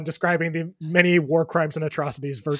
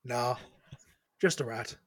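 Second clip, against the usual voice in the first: dopey dockhand voice; 5 semitones lower, 8 dB quieter than usual. Acted. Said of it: "And he says".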